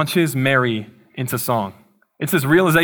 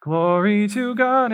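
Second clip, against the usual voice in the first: slow, high, drawn-out Glory to God; mock holy exclaim; 6 semitones higher, much slower than usual. Pastor imagining Dan answering a compliment with slow, high mock praise. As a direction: ham up a friend bursting into praise. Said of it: "And he was just like".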